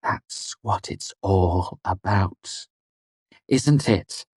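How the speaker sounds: freeze him out; coldly. A narrator's reading. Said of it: "she said coldly".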